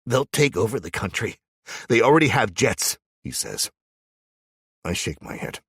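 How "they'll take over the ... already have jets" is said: tearful warning. Acted. Cameron crying.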